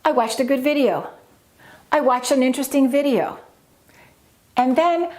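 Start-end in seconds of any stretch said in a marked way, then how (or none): 0.0-1.1 quick run into a stressed, falling "video"; jump up on video. Shown as a demonstration. Teacher demonstrating the jump up, main stress on "video" over "good". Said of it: "we jump up like this". 1.9-3.4 quick sentence, main stress on "video"; jump up on video. Shown as a demonstration. Teacher giving another adjective example, jump up on "video". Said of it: "we jump up like this".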